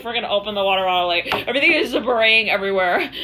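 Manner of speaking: normal talking voice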